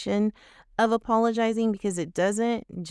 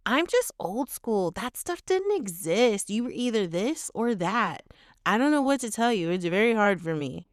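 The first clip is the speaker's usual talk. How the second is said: put-on old-school excuse; 2 semitones higher than usual. Shown as a demonstration. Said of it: "the last example".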